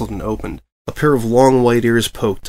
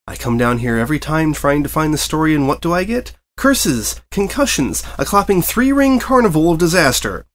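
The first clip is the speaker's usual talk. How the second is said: frustrated rant; 5 semitones higher than usual. Acted. Reporter's rising rant.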